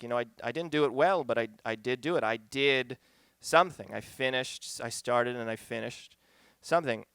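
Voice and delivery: soft and quick, talking to yourself; a private moment of pride, hushed; quiet sincere reflection. Retold or imitated. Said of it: "I did have a real moment".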